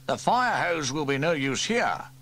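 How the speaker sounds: rally the men fast; urgent chief. Acted. Fire chief orders his men out, urgently. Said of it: "said Station Officer Steele".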